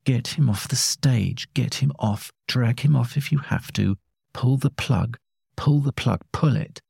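small, high voice through an earpiece; tinny boss barking orders down the phone. A narrator's reading. Boss in her ear, ordering the press officer, tinny phone voice. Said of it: "the little voice in her ear".

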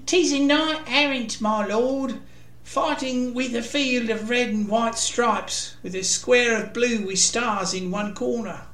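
squire reporting nervously to his lord. A narrator's reading. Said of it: "The squire looked around nervously".

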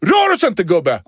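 high, slow, loud frightened cry; hammed-up panicked kid scream. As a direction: back away shrieking at the man. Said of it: "Bara de skriker på mig".

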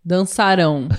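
DANÇARÃO weighted on RÃO; stress on last syllable. Shown as a demonstration. Co-teacher giving a future-tense example, final-syllable stress. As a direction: land on the end of dançarão. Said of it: "é a última".

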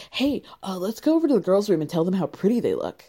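a light, quick mock Italian accent. The speaker urging Austin to compliment the girls, in a mock Italian accent. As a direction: toss it off in a hammed-up Italian accent. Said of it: "That was my Italian accent".

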